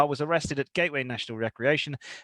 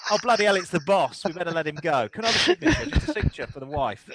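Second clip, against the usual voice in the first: starstruck copper; 3 semitones higher, faster than usual. Retold or imitated. Imagined cop recognises Bruce.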